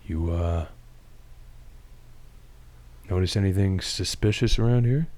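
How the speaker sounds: Superman voice. Acted. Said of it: "as Superman go".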